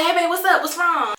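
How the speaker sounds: wife on phone with husband after crash, alarmed; panicked. Retold or imitated. Fight or flight alarm. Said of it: "fight or flight mode".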